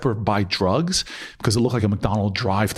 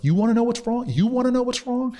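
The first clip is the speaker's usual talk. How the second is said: much higher, exasperated, repeated challenge; retold angry outburst; 13 semitones higher than usual. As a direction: snap back at the tenant leader, voice jumping up high. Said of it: "like, angry".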